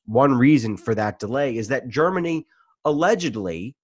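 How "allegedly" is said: "allegedly" set apart and emphasised; stress on ALLEGEDLY. Real, not acted. Host qualifying a claim about Germany, stressing "allegedly". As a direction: lean on the word "allegedly". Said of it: "emphasis on allegedly".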